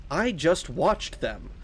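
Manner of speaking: slow, affronted holy figure; measured, imperious priest voice; haughty priest. Acted. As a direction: rebuke an insolent child with stately weight. Priest answers.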